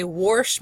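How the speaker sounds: "warsh" with an R before the "sh"; intrusive R. Shown as a demonstration. Teacher giving a dialect example, "warsh" with an added R. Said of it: "does not have an R in it".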